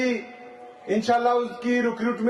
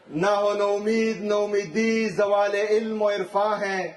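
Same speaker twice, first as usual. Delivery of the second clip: declaimed Urdu verse to a crowd; rally-stage verse recital, falling at the close; poetry recitation. Acted.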